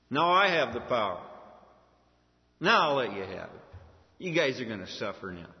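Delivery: mock power trip, loud attack on each line; acted threat, hitting the openings hard; vengeful threat. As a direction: declare revenge with booming emphasis. Imagined vengeful Joseph threatens his brothers.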